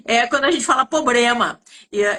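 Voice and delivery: ordinary talk, nothing marked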